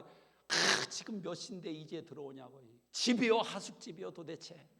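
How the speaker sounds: playful imitation of a wife nagging. Wife scolding husband who came home late, mock nagging. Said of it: "그러지 말고".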